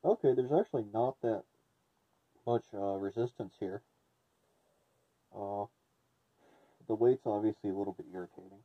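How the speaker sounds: muffled voice behind a respirator; through a gas mask. Real, not acted. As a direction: talk through a face mask. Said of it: "As you can hear, the T F sixty does actually have half decent voice, uh, transfer".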